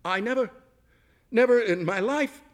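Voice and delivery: high, loud outburst that swells on the second never; sputtering indignation, barely getting it out; wrought up, outraged. A narrator's reading. Overwrought guest confronting the chef, high loud outrage. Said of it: "so wrought up she could barely go on".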